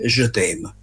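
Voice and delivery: "je t'aime" said the French way, in an Italian accent; French pronunciation. Shown as a demonstration. Telling listeners how the French say I love you, Italian-accented French. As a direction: try the French "je t'aime" with careful Italian vowels. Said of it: "se la mia pronuncia è corretta".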